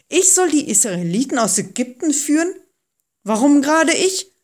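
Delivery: high, dismayed questioning; alarmed. A narrator's reading. Moses questioning God's order to lead Israelites, alarmed. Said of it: "fragte Mose erschrocken".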